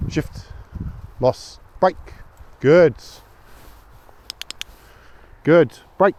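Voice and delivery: high, loud, praising commands; dog commands. Real, not acted. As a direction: cheer the dog on as it obeys. Training the dog on a walk.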